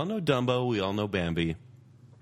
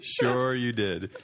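sarcastic; slower than usual. Real, not acted. Teasing disbelief.

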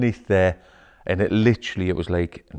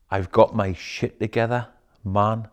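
cool front. Retold or imitated. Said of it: "the type of man I portray".

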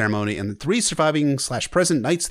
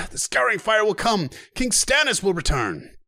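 high defiant prophecy; shouting; 10 semitones higher than usual. Acted. Knocked-down knight still crying out to Joffrey, high. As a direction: cry out the prophecy from the floor. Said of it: "he continued to shout".

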